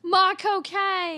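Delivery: put-on slow, high, loud Cockney Michael Caine accent. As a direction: stretch it out Michael Caine style. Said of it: "in Michael Caine's accent".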